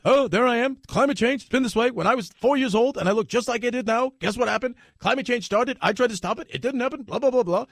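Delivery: lightly voiced old senator ranting; Bernie Sanders impression. Mocking Bernie Sanders on last night's debate, lightly voiced. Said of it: "you had Bernie Sanders".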